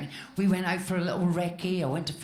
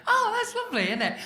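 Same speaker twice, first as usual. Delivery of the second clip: flattered; 12 semitones higher than usual. Retold or imitated. Flattered by her friend.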